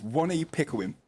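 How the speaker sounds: WONNY said with a W in place of R. Retold or imitated. Reading a viewer's tease about the weak R, W-sound in WONNY. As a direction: mimic a weak R, starting WONNY with W. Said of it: "Jordan says, "Wonny Pickering".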